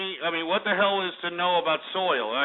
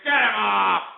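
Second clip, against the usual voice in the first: get him off; 4 semitones higher, 5 dB louder, slower than usual. Real, not acted. Host orders caller dropped.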